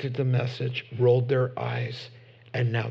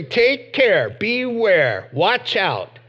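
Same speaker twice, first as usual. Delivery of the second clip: high, loud warning cry; preacher rising to a shout; 5 semitones higher, 7 dB louder, slower than usual. Real, not acted. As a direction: sound the alarm to the crowd.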